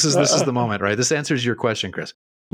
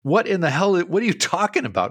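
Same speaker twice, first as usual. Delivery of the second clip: incredulous outburst; 8 semitones higher than usual. Retold or imitated. Kid baffled by answer.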